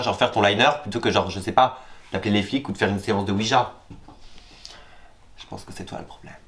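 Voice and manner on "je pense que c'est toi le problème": whispered aside. Real, not acted. Muttered aside to the storyteller.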